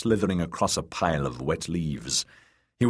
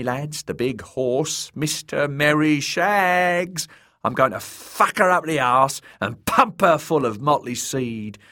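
high, crowing fool voice; lewd jester, gloating; 9 semitones higher, 3 dB louder than usual. A narrator's reading. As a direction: boast loudly to the gang. Narrator plays the crowing jester.

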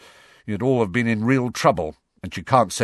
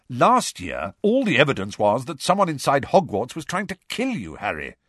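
higher, mildly impatient insistence; 6 semitones higher than usual. A narrator's reading. Godfather explaining last year's danger, impatient. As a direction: press the point with some impatience. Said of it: "said Sirius impatiently".

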